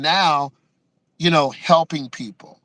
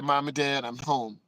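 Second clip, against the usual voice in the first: small, much softer voice, scared to speak; timid announcement; 2 semitones lower, 9 dB quieter than usual. Retold or imitated. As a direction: say it quietly, dreading their reaction.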